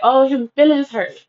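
put-on high-pitched babying tease; mock pity. Tipsy niece teasing her sulking uncle, mock pity. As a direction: coo it in fake sympathy. Repeat of drunk teasing quote.

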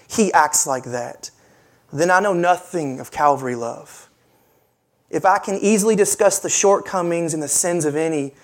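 low, measured reading of a poem. Acted. Pastor reads Amy Carmichael's poem to his congregation, solemn reading.

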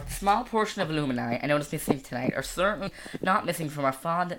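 American graduation speech, joking aside then formal; put-on American school-play accent. Shown as a demonstration. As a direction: recite it as an American valedictorian. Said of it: "That was American".

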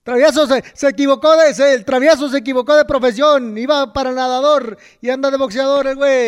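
lightly voiced ringside announcer; mock fight commentator. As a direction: jeer at the boxer like a commentator. Mock commentary interrupts the story.

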